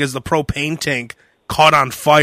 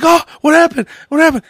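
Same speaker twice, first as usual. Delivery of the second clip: alarmed question; 12 semitones higher, 4 dB louder, faster than usual. Retold or imitated. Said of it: "I'm like".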